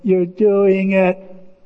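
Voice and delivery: drawn-out, wondering singsong; imitated awed kids. Two kids watching Peter imagine, awed drawn-out call. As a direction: stretch each phrase out in childlike wonder. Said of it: "And the two kids".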